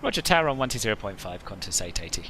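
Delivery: pilot over the radio. Acted. Pilot reading back to the tower.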